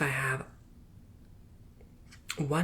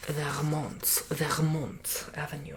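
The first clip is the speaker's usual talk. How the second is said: French Canadian accent; slower than usual. Real, not acted. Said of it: "said it like a French Canadian".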